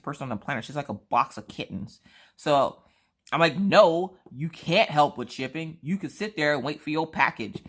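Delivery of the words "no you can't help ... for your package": mock yelling. Refusing a kind friend's offer to help with shipping, mock scolding. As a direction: put your foot down, playfully. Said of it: "I have to yell at her sometimes".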